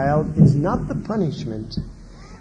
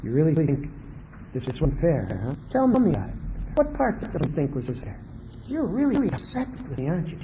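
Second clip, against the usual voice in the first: calm parent; 3 semitones lower, 7 dB quieter, faster than usual. Retold or imitated. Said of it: "talk to them and say".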